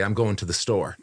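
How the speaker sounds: "to" reduced to a quick "ta"; conversational "to". Shown as a demonstration. Showing co-host everyday speech, conversational reduced "to". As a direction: say "to" casually, as an unstressed "ta". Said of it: "when you're doing conversationally".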